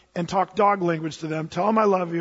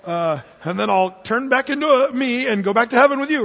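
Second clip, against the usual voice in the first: eager promise; 3 semitones higher, 4 dB louder than usual. Retold or imitated. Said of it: "I'm gonna go".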